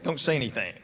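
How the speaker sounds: low, soft retold plea from the wife; hushed warning. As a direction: voice the wife's warning, low and quiet. Wife's warning before the school meeting.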